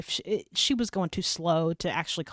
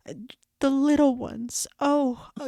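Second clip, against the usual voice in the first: put-on higher, halting old woman's voice; tearful old lady; 5 semitones higher than usual. Imitating the old lady near tears, higher and halting. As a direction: mimic her, choked up and halting. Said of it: "she just couldn't hardly talk".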